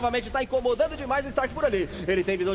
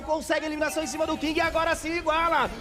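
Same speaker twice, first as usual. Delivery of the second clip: excited play-by-play; 5 semitones higher than usual. Real, not acted. Play-by-play climax.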